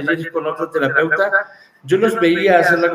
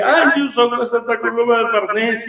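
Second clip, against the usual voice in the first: retold crying; 7 semitones higher than usual. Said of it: "se pone a llorar y dice".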